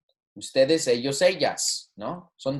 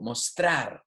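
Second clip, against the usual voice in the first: mostrar with the stress on TRAR; mos-TRAR, stress on the end; stress on second syllable. Shown as a demonstration. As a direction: lean on the final syllable of mostrar. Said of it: "maintain the stress of this verb on the second syllable".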